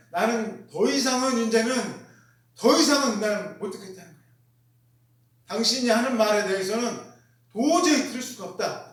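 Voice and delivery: voicing a fed-up accuser; acted indignant refusal. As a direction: refuse to hear another word. Acts crowd refusing to hear Stephen.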